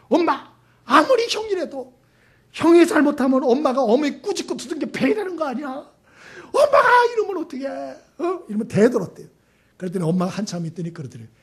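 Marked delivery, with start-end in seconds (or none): 0.1-8.4 high, hammed-up outburst of a wronged youngest son; retold tearful protest. Youngest son protesting to his mother about his brothers' beatings, mock-tearful. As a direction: act out a huffy complaint, soaring higher at the end. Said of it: "씩씩거리면서 울면서 막 대들었대요".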